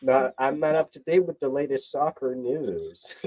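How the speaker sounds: slow, put-on American accent; slow American soccer-bro accent. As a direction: lean into a teasing American accent. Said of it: "I hate that kind of American accent".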